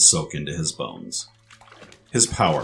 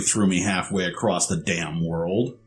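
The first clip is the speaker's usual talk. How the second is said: indignant complaint; 3 semitones higher, 4 dB louder than usual. Acted. Tyrus complains.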